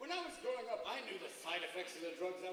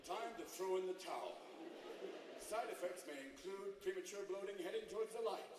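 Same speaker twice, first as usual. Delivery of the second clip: drug ad announcer. Acted. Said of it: "have a drug where the ad is".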